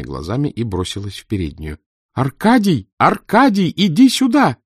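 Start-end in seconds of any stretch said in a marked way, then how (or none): 2.1-4.6 higher, louder calling shout. A narrator's reading. Mother calling her husband Arkady into the hall, shouting. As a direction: call her husband from the hallway. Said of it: "крикнула она".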